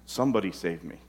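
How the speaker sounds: whisper-close plea for rescue; pleading quietly. Retold or imitated. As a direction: inner child begging softly. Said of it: "our inner child is saying".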